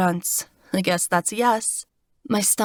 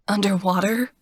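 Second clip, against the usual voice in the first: shocked. Acted.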